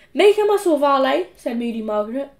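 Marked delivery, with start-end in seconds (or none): 0.1-1.3 put-on high, louder bossy girl command; bossy order. A narrator's reading. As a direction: order the servant about. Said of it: "ordered Margaret".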